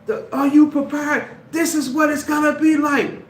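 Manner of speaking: high, loud taunting nerd voice; mocking a nerd. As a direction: play the smug nerd, high and pushy. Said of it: "and then that nerd say".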